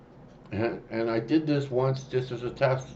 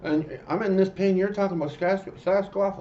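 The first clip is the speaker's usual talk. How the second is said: pained disbelief; 9 semitones higher than usual. Retold or imitated. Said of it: "He's screaming".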